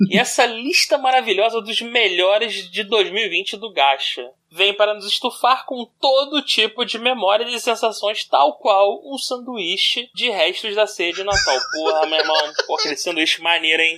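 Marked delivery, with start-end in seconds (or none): 0.1-11.6 formal reading. Acted. Continues reading the text.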